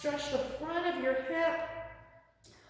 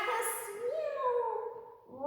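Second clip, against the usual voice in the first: playful cat hiss and higher meow; angry cat; 8 semitones higher than usual. Pretend. Yoga teacher playing angry cat for kids, playful hiss and meow. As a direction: hiss then meow like a grumpy kitty. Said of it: "And now angry cat".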